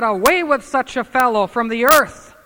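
a mild mock mob shout in scripture; mob cry. Mob cry in Bible reading.

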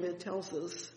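ordinary talk, nothing marked

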